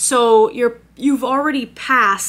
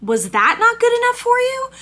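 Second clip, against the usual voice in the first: outraged; 11 semitones higher than usual. Real, not acted. Outraged rhetorical question.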